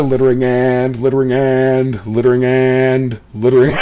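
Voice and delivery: dazed repeating. Retold or imitated. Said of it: "he's just listening to".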